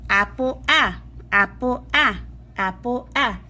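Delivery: "ah" as in "apple", open short vowel; short a sound. Shown as a demonstration. Teacher showing kids the short a sound, exaggerated. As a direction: stretch the "ah" before "apple". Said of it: "And you're gonna say".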